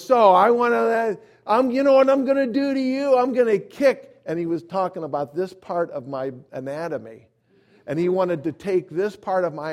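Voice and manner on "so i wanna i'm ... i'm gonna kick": loud, high-pitched bullying threat; imitating a worked-up, swearing stranger; agitated threat. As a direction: threaten him at full voice. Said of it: "swearing at me and all this kind of stuff".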